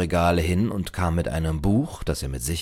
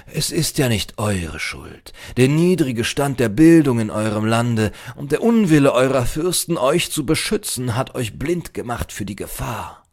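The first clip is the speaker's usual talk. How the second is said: emphatic scholar, swelling then easing off; admonishing librarian; 6 semitones higher, 6 dB louder than usual. A narrator's reading. Librarian blames the stranger's princes, emphatic lecturing. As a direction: lecture with rising indignation.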